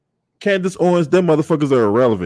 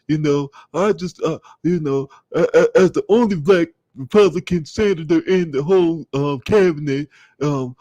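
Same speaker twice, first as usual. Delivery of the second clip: halting, put-on politician voice; Tim Scott. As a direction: mimic a senator hemming through his excuses. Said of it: "that's how he be saying".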